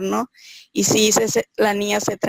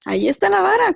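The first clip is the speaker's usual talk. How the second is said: quoted advice pitched much higher, pressing the point; urging a mother to use the rod, pitched high; insistent quote; 10 semitones higher, faster than usual. Retold or imitated. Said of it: "me dijeron".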